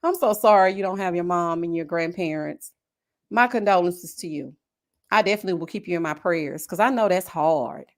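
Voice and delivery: low, gentle sympathy; tender, subdued condolences; sincere condolence. Real, not acted. Condolences to grieving viewer.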